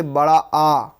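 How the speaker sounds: long आ with mouth wide open; fully open आ. Shown as a demonstration. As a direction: stretch आ out slowly, fully open. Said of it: "जब मुख पूरा खुल जाए".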